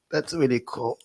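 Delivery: lightly imitated American accent, from the throat; American accent demo with a throaty catch. Shown as a demonstration. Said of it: "something in the, in their throat".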